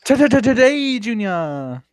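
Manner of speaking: loud, high stammering taunt; mocking stutter. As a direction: mimic a stutter to hurry someone along. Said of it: "Stuttering Dark Con".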